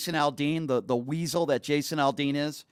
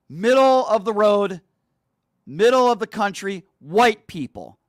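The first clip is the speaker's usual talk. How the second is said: louder, heated; 3 semitones higher, 5 dB louder than usual. Real, not acted. Angry rant about lyric meaning.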